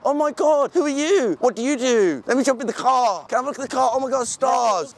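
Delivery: high, gushing mock fangirl squeal; starstruck gushing girl. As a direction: imitate her sudden starstruck switch. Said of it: "switched straight away".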